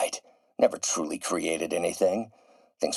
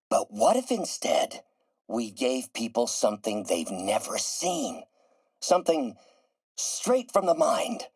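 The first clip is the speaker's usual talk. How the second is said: visionary excitement; 4 semitones higher than usual. Acted. Pitching a visionary idea to colleague.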